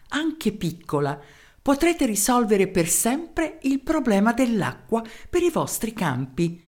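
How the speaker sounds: ad read aloud. A narrator's reading. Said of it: "Il testo dell'annuncio suonava pressappoco così".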